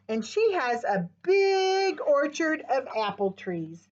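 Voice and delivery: lively picture-book read-aloud; reading to children. Acted. Teacher reading Apple Farmer Annie to kids, lively read-aloud. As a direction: read it brightly to little listeners.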